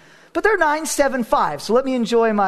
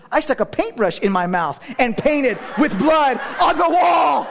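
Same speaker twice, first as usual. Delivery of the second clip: son's excited shout; 4 semitones higher than usual. Retold or imitated. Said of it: "and he goes".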